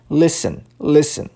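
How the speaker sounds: "Listen" with a silent T; T mudo. Shown as a demonstration. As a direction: go straight from the S to the E in "Listen". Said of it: "vai direto do S pro E". ("Listen" com o T mudo)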